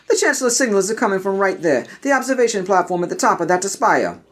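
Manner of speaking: focused Jedi. Acted. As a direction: point out the target calmly.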